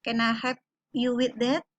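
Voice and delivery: "Can I help you with that?" with the tune brought down; falling intonation. Shown as a demonstration. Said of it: "turun intonasinya".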